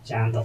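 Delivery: ᱪᱟᱸᱫᱚ as two syllables, "chan-do"; pronunciation demo. Shown as a demonstration. Teacher reading out the spelled word, ᱪᱟᱸᱫᱚ said alone as "chando". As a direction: say ᱪᱟᱸᱫᱚ by itself, ending on o. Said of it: "ᱩᱪᱪᱟᱨᱚᱱᱚᱜ ᱠᱟᱱᱟ".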